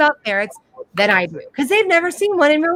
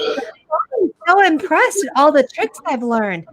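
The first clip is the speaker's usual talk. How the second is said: dog voice; 4 semitones higher, slower than usual. Retold or imitated. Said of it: "in the dog voice".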